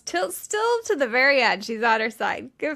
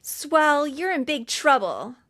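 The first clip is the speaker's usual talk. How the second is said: mock mom yell, slightly raised; imitated yelling; 4 semitones higher, 3 dB louder, slower than usual. Mom calling out Swell before everybody, mock yell. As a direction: call it out like a scolding mother. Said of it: "mom yells in the middle of everybody".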